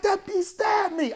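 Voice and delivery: high, slow, dazed complaint; stunned wounded barber. Retold or imitated. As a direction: say it slowly, stunned by the stab. Wounded barber quoted in story.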